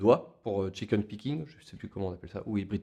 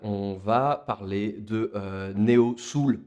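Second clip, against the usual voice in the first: put-on English accent; 3 dB louder than usual. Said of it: "avec un accent anglais de qualité".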